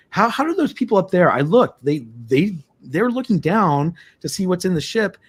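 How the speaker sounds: can't believe the tourists heard nothing; incredulous. Retold or imitated. Baffled others heard nothing.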